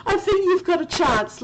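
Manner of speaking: high teary laugh into words; crying with laughter. Real, not acted. Streamer laughing to tears at the quiz, high teary voice. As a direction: laugh till tears, then speak. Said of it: "I'm crying".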